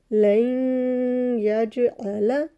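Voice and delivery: लन यजअला with the नून nasalised into या and the जीम bounced; slow tajweed recitation; nasal sound and qalqala. Shown as a demonstration. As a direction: chant slowly, nasal hold then a pop on जीम. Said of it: "nasal sound या मुशद्दद पे बनाई है".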